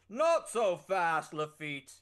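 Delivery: a buff minstrel, lightly voiced, swaggering; bold minstrel hero. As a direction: claim the blade proudly. Player voices Warrant Truenote.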